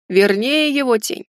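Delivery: lightly thoughtful afterthought; pensive. Acted. Ramon correcting his own answer, thoughtful. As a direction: add it musingly. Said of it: "задумчиво добавил Рамон".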